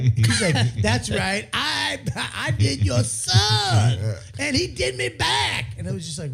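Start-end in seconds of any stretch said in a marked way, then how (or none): 0.8-5.7 mock confession. Retelling a shocking confession.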